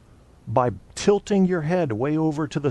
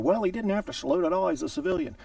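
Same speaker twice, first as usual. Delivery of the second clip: mocking a critic; 8 semitones higher, faster than usual. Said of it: "I've had people argue".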